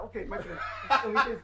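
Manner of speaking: put-on slow, drawn-out Arab-accented reply. Attendant letting a friend through, slow Arab accent. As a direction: imitate an agreeable Arab gas station attendant, slowly. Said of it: "At the Arab gas station".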